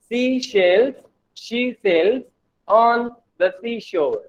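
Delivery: tongue twister piece by piece, with pauses; measured tongue twister. Shown as a demonstration. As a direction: break the tongue twister into slow, separate chunks. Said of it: "Try to read fastly".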